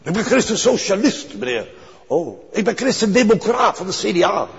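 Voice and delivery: high, mocking smug insistence. Preacher mocking people who call themselves Christian, high mock.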